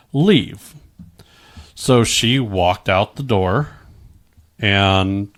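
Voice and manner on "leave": telling his ex to get out, a sudden firm command; firm order. Retold or imitated. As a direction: bark the final word to end the fight. Ordering ex out mid-argument.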